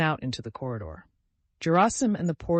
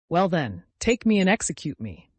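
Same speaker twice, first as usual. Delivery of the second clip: sad but firm; 5 semitones higher, 6 dB louder than usual. A narrator's reading. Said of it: "with a sad but firm expression".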